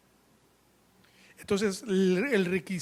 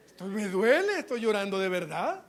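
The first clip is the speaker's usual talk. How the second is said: mildly plaintive, acted complaint; mock pleading protest. Preacher as the hurt child explaining to the aunt, mock plaintive. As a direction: plead the point with swooping pitch. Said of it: "dan ganas de decirle".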